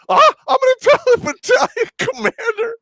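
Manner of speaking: high, loud whiny officer voice; whiny threat. Retold or imitated. Lieutenant threatening to tell the commander, high whiny mock voice. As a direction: threaten to tell on him like a tattletale.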